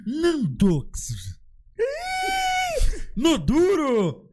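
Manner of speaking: high cheering shout; excited shout. Real, not acted. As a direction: yell it out in delight. Cheering the promised song.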